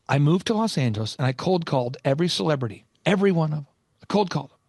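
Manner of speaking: emphatic, deliberate retelling; a touch of theatrical insistence; intense coach. Retold or imitated. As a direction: lightly imitate an intense mentor. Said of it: "intense coaching method he does".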